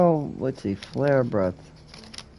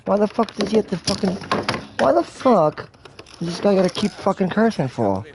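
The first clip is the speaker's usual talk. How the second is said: exasperated, higher-pitched scolding; mock outraged rant; 4 semitones higher than usual. Player scolds game character for cursing, in mock outrage. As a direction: rant in exaggerated outrage at a foul mouth.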